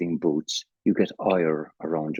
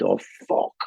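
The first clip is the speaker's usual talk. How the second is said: retold airport panic, half-whispered oaths rising to a higher cry; mock panic; 3 semitones higher, 4 dB louder than usual. Recalling the Chicago airport alarms, imitating his own mock panic. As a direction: replay the alarm-bell terror, half in jest. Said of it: "And I went".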